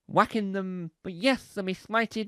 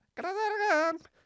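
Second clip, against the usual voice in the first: very high, pitched-up pigeon voice; 11 semitones higher, 5 dB quieter than usual. Showing how the animated pigeon should say its blooper line, pigeon impression. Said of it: "That's my impression of a pigeon".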